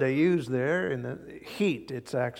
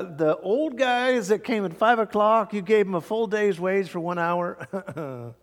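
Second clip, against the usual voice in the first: grumbling worker; 5 semitones higher than usual. Acted. Workers complaining to boss.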